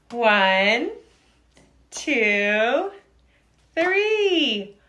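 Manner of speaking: loud, drawn-out count with pauses; energetic exercise count. Shown as a demonstration. Counting out jumping jacks.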